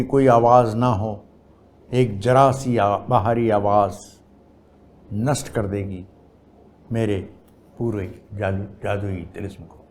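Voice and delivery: measured poetry reading, pausing between lines; poem recitation. Acted. Poet reading own poem to an audience, measured recitation. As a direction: recite in phrases that start strong and fall away.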